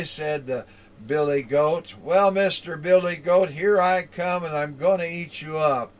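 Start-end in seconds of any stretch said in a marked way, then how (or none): 2.0-5.9 louder troll bellow, fading; dopey cartoon bellow. Troll threatens the big goat.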